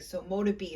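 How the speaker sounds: So mote it be said firm and demanding; firmly. Shown as a demonstration. Showing viewers the demanding So mote it be, firm. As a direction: demand it to start. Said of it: "So you're gonna be like".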